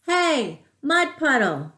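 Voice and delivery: high, loud yell. A narrator's reading. Girl in the backyard yelling at the mud puddle. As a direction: call the puddle out boldly.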